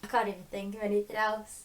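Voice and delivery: fast, breathless whisper of disgust; exasperated whisper. Real, not acted. To her co-host about hated Teresa, a fast whisper. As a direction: hiss it out fast, too fed up to speak aloud. Hating a book character.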